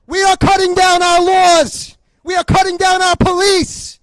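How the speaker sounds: a rally speaker's outraged shout; indignant shout. Real, not acted. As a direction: hammer it at the crowd.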